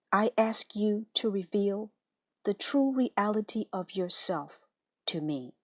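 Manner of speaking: unhurried, reverent guided prayer; meditation prayer. Acted.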